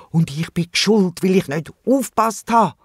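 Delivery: mildly wailing self-blame, pitch lifted; a touch of a guilty lament. A narrator's reading. Wombat blames himself for his missing friend, mildly wailing. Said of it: "jammert der Wombat laut".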